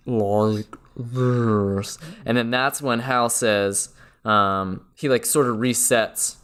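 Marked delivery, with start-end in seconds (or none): 0.1-2.0 mock dying Hal voice. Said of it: "Hal's voice slowly goes from".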